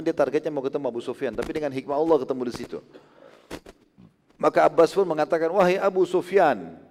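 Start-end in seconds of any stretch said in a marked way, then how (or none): 5.6-6.8 mild, drawn-out hail; imitated loud call. Abbas hailing Abu Sufyan in the dark, mildly raised call. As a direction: call out slowly, a little raised. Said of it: "suaranya keras sekali".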